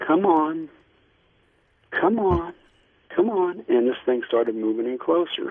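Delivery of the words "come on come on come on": gentle, high, drawn-out coaxing call. Retelling how someone waved a thing in closer: imitating someone speaking softly. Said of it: "she softly goes".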